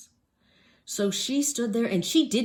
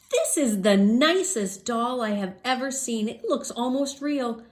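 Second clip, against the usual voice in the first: higher, slower gushing lady; admiring shop lady; 4 semitones higher, 5 dB louder than usual. Acted. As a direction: marvel at a lovely doll. Store lady admires doll.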